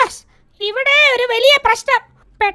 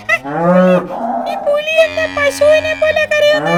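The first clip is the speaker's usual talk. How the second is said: odd creature voice; 2 semitones higher, slower than usual. Acted. Tiger crying like a cow.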